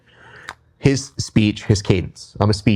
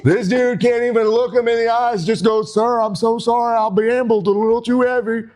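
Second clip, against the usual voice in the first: higher, hyped-up ring promo; wrestling promo; 4 semitones higher than usual. Pretend. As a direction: finish the promo to pump up the fans. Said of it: "I'm gonna bring it home right now".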